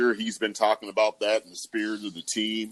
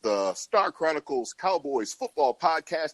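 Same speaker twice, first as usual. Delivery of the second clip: excited host intro; 3 semitones higher than usual. Real, not acted. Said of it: "Kinda weird that I'm sounding so excited".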